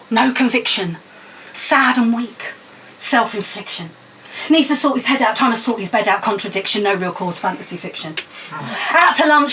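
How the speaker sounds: rhythmic, punchy poem recital; spoken word poem. Acted. Poet performing Moon on a Stick at open mic, rhythmic recital. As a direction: perform it to the crowd with attitude.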